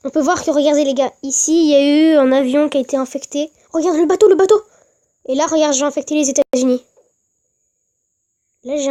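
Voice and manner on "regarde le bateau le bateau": rising excited shout. Real, not acted. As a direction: call it out louder and louder. Excitedly pointing out the boat.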